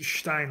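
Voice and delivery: "Stein" said as "shtine", German sh sound at the start; proper German pronunciation. Shown as a demonstration. Telling chat how he says the name Bronstein, German "Stein". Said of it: "like, proper German".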